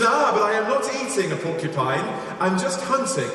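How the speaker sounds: high-pitched, hammed-up excuse; mock protesting. Hunter excusing himself to his accuser, mock protesting.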